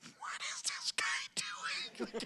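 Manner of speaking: slow, high whisper; bewildered whisper. Retold or imitated. The room wondering about the actor, whispered. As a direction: whisper it in disbelief. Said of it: "everybody in the room was like".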